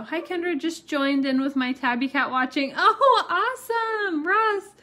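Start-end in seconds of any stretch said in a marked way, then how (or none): 2.8-4.7 laughing delight. Real, not acted. Reading viewer's chat message.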